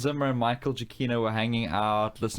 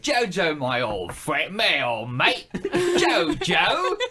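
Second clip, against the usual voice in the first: put-on German accent; 5 semitones higher, 4 dB louder, much slower than usual. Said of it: "do your German accent again".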